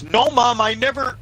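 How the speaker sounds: put-on high, loud whine of a kid caught out; protesting son. Son protesting to his mom, high and panicked. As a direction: imitate a boy pleading innocence, cut off mid-sentence. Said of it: "I hear her yell something".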